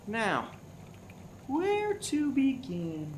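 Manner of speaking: slow, high, drawn-out sleuth voice; theatrical detective. Acted. Detective opening the case to the crowd, slow and theatrical. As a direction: savour it like a grand detective.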